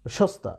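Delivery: সস্তা with sh first, then s before t; pronunciation demo. Shown as a demonstration. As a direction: say সস্তা as shosta. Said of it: "তুমি যখন বলছো". (সস্তা-র প্রথম স শ-এর মতো, পরেরটা দন্ত স)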